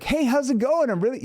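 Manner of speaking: very high, loud, overexcited greeting; hammed-up overexcitement; too enthusiastic. Shown as a demonstration. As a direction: gush like an overeager salesperson. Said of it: "They sound really, really excited".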